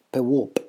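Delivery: Pewop said clearly with a hard P, falling; model word Pewop. Shown as a demonstration. Teacher models the word for cloud. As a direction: pronounce Pewop slowly for learners. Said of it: "Pewop ist das Wort für Wolke".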